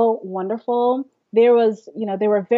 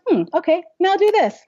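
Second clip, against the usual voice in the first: higher, musing then firm; hum, then hand out the next exercise; teacher testing; 9 semitones higher than usual. Retold or imitated. Voice teacher drilling a student, higher musing instruction. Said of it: "And she says".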